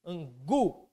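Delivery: "Angu" with the gu set apart; stress on final syllable. Shown as a demonstration. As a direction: lean on gu in "Angu". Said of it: "é esse gu aí do final". ("Angu" com o gu bem marcado)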